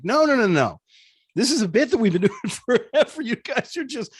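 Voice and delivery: high, loud retold objection; insistent protest. Host answering people who suspected a hoax, insistent high-pitched protest. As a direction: protest emphatically, with a laugh breaking in. Retells protest to accusing listeners.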